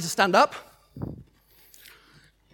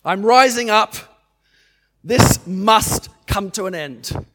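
bold prayer declaration; 3 dB louder than usual. Shown as a demonstration. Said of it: "Identify it and say".

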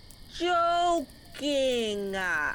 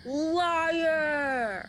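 high, hammed-up accusation; mock outraged shout; 6 semitones higher than usual. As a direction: fling it as a stage cry. Acted quarrel before cops.

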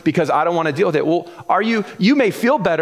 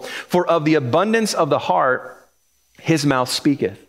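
put-on a lightly lower, measured reading of old verses; scripture reading; 3 semitones lower than usual. Preacher reading scripture to the congregation, measured.

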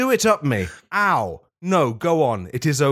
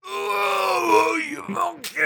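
squeaky bee voice; much slower than usual. Acted. The bee pushing out honey, very high squeal. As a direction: shriek it as the straining bee. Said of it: "said the bee".

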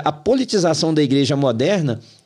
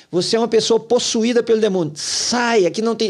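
retold preacher's rant; 5 semitones higher than usual. Pastor ordering Democrats out of church, imitated ranting. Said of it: "E foi gritando".

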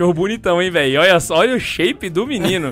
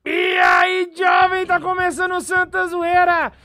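podcast host shout; 10 semitones higher, much slower than usual. Acted. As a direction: belt out the show intro. Host shouting show opening.

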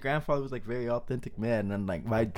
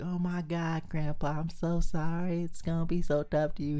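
higher, lightly mocked sympathetic cousin; gushing cousin; 5 semitones higher than usual. Cousin consoling grandpa on his deathbed, higher mock sympathy. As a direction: pitch it up in put-on sympathy.

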